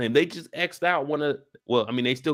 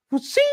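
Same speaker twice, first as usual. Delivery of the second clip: weak sword sound; 10 semitones higher than usual. Shown as a demonstration. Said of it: "all you hear is".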